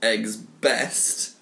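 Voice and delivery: measured, repetitive chant with each word set apart; mock poetry recital. Host reading his unfinished egg sonnet to friends, mock recital. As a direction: recite it like a solemn nonsense poem.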